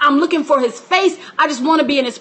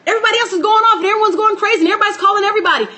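higher, fast, flustered rush; mock bewilderment; 6 semitones higher, much faster than usual. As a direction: rattle it off like a confused bystander. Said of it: "everyone's like".

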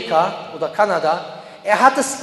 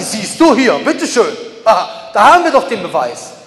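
mocking a gloating accuser, loud bursts; triumphant mock accusation; 5 dB louder than usual. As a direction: play someone crowing over supposed proof. Voicing racists' smug proof.

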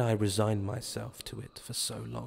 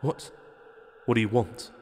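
stammering. Acted. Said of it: "I stammer".

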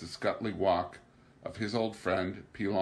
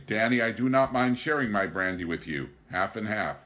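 sternly; 2 semitones higher, 5 dB louder than usual. Acted. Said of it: "Pilon answered him sternly".

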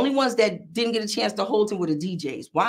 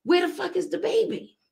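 mock yell; 11 semitones higher than usual. Rapper yelling at her DJ into the microphone, mildly. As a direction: retell the yell at the DJ lightly. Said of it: "I look at Polo and I yell".

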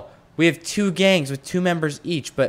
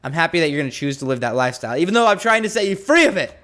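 worked up. Real, not acted. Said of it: "Getting a little worked up".

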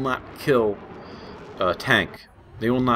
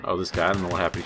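ordinary talk

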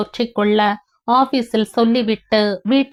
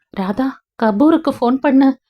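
urgent call; 4 semitones higher than usual. Acted. Son sees mother collapsing.

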